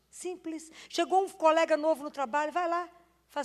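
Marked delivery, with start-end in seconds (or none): 0.1-0.7 simples repeated softer, falling and dropping away. Shown as a demonstration. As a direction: let simples fall quietly.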